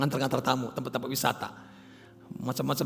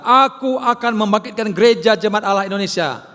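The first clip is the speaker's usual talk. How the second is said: voice of God; 6 semitones higher, 10 dB louder than usual. Retold or imitated. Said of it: "Tuhan berkata".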